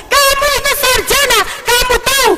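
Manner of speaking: a lightly voiced scoffing husband; mocking husband. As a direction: needle her like the scoffing husband. Husband mocking her faith.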